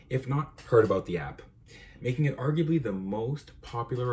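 measured essay read-aloud, phrase by phrase. Real, not acted. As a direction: read your own paper out deliberately, word for word. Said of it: "let me just read it word for word".

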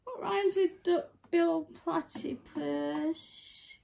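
drawn-out frog question; attempted frog voice. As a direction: read it slowly as a frog. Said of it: "it's my frog voice".

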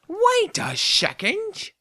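high, slow breathy whisper. Pretend. Streamer noticing something, whispered. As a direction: whisper it like a secret.

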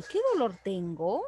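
pregunta rápida, TENGO sube al final. Shown as a demonstration. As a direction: DOLOR marcado y «tengo» levantado. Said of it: "no me puedo preguntar a mí misma". (pregunta ligera con final ascendente)

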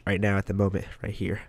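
talking with a tissue in one nostril; slightly blocked nose from a tissue. Real, not acted. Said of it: "I have a tissue in my nose right here".

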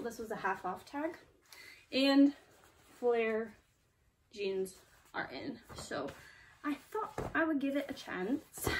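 a weak, put-on British accent. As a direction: read it in a hammy British accent. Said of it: "my bad British accent for you".

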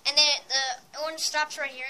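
gum in mouth; chewing gum. Real, not acted. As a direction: talk around chewing gum. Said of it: "I probably sound a little bit weird because".

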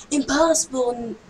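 slow, drawn-out chant that sinks and fades; playful drone trailing away; droning repetition. Pretend. Playfully repeats the level's word.

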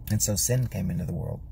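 solemn breathy whisper; whispered warning about sin. Acted. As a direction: breathe it out gravely. Solemn hushed conclusion.

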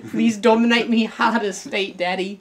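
hammed-up submissive begging; mock pleading. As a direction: beg in jest, voice lifted. Mock plea in political joke.

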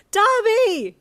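high, drawn-out scream of a name; yelling back. A narrator's reading. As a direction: yell back desperately to someone hurt. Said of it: "you yelled back".

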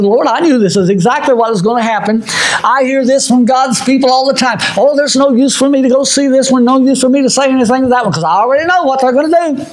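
high, speeding up into a complaint; mock complaining prophet, high and quick; whining Jonah. Preacher voices complaining Jonah.

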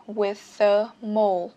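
slow "With a mole", TH flowing into "a"; TH linked to A. Shown as a demonstration. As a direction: draw out the TH of "With" onto "a". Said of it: "âm T H các bạn nối luôn sang chữ A". ("With a" nối âm TH sang A, đọc chậm)

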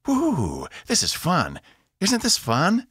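high, gleeful whoop; enjoy the ride out loud; delighted. A narrator's reading. Evie thrilled mid-maneuver.

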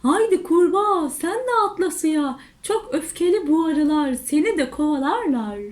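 quick, lively coaxing; mildly urgent, quick warning; urgent calling. Acted. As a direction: call a friend to hurry and jump. Animals call urgently to frog.

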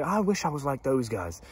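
soft, slow, longing wish; wistful. Retold or imitated. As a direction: say it quietly, almost to yourself. Wistfully quoting his younger self.

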